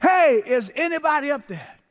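lightly acted call upward; measured mock holler; mild cry for help. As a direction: call out as if from down a pit. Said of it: "he began to cry out".

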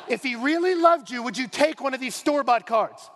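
laughing through a teasing question; giggly mock-serious question. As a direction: ask it while cracking up.

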